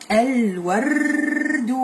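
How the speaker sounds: very slow, drawn-out reading aloud; a teacher's slow, careful model read. Shown as a demonstration. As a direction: stretch each word slowly for the pupil. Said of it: "teacher models slow reading".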